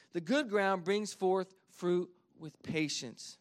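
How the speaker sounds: slow, weighty, every word placed; slow emphatic restatement. Real, not acted. Pastor drives home the verse to the church, slow and weighty. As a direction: let the verse land slowly. Repeats the verse's key line.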